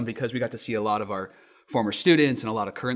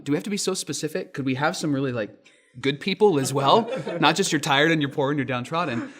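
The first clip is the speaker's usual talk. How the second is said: raised, louder mock-incredulous comedian riff; louder wry stand-up quip with a laugh in it; Jerry Seinfeld bit; 4 semitones higher, 4 dB louder than usual. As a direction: play it like a stand-up poking at the wording. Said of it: "comedian Jerry Seinfeld actually said".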